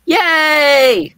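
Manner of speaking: high, loud mock cheer; imitating a cheer. Host imitating absent Zach's cheer, high mock yay. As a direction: squeal it for the absent friend. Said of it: "he would say".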